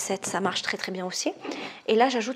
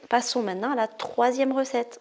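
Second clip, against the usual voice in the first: Passe-Partout; 3 semitones higher than usual. Acted. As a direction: announce it like a game-show character, pitched up. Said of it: "On dirait Passe-Partout dans".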